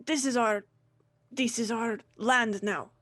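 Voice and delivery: proud, lightly voiced dwarf proclamation; defiant dwarf. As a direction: declare the conquest proudly. Captured dwarf keeps ranting.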